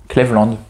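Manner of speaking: "Cleveland" read the French way, KLEV-land; French pronunciation. Shown as a demonstration. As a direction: say "Cleveland" with an open e and nasal an. Trying pronunciations of a name. (« Cleveland » prononcé « klèvlande », à la française)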